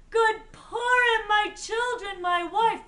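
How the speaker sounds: loud, high greeting to the family; joyful homecoming call. A narrator's reading. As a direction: call out joyfully to wife and children. Father greets family behind packages.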